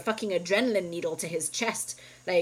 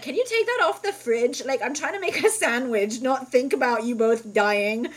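annoyed whine; 5 semitones higher, 6 dB louder than usual. Retold or imitated. Teen complaining to parents.

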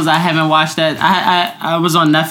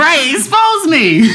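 sarcastic; 10 semitones higher, slower than usual. Real, not acted. Joking about viral moment.

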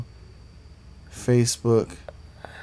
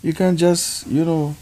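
a lightly raised, mild Southern imitation; cashier's Southern accent; 7 semitones higher, slower than usual. Husband imitates the grocery store lady in a Southern accent. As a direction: mimic the store lady's Southern voice. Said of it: "You had to do the accent".

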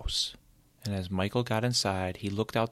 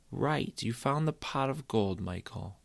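higher, sceptical indulgent tone; humouring mother; 3 semitones higher than usual. Acted. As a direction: play along without believing. Mother humours the boy's tale.

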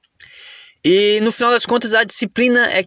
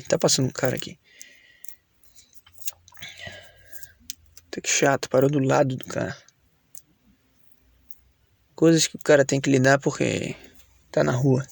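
quiet; 4 semitones lower, 6 dB quieter than usual. Real, not acted. Stranger stops beside his car.

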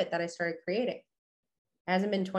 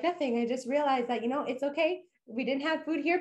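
chirpy upbeat; 5 semitones higher than usual. Retold or imitated. Cheerful reply to boyfriend.

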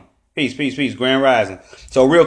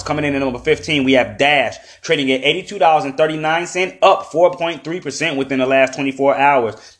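upbeat market countdown read; top twenty countdown; 2 semitones higher than usual. Acted. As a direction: rattle off the rankings. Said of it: "run through the top twenty coins".

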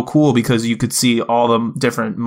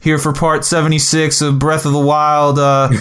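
lightly voiced gamer YouTuber intro; a hint of a let's-play host; 3 semitones higher than usual. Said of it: "going to YouTube and being like".

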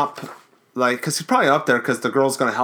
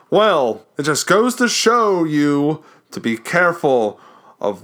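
horror host voice; slower than usual. Pretend. Hosting the Crypt Keeper outro.

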